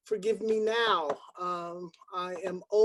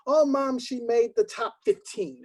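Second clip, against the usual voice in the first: put-on excited child; 3 semitones higher, 4 dB louder than usual. Little girl telling her mother, excited. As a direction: call out to mom, thrilled. Child calling mom during pageant.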